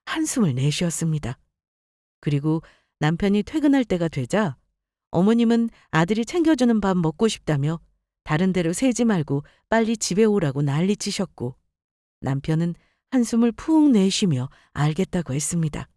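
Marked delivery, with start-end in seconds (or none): none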